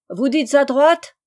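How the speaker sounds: lent, plus fort et plus aigu, implorant; suppliez-le, perdu dans l'eau; supplication. Acted. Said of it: "implora le mari". (supplique lente et inquiète)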